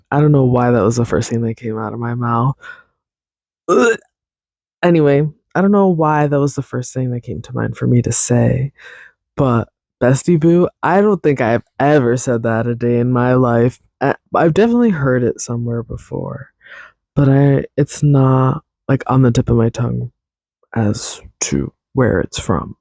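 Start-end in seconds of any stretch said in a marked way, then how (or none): 3.7-4.0 cringe groan. Real, not acted. Cringing at own words. 20.8-22.8 whispered aside. Real, not acted. Trailing off unvoiced.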